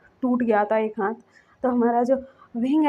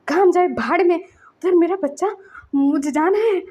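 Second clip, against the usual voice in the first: loud, higher and urgent, brushing work aside; retold panicked shout; frantic outburst; 5 semitones higher, 4 dB louder than usual. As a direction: blurt it out in a panic to leave. Frantic father rushing to hospital.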